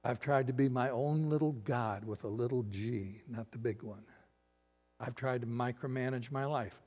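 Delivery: subdued, humble confession to God; understated model prayer; sample confession prayer. Shown as a demonstration. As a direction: pray it quietly, plainly. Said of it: "And say".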